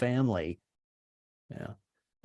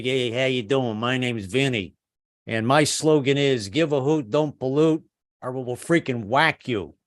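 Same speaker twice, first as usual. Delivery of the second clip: Italian mobster PSA; slower than usual. Pretend. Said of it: "wink wink Italian businessmen to do a public service announcement".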